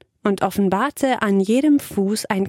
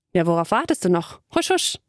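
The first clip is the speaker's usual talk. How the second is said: shooing along. Acted. Mia shooing Kyla off.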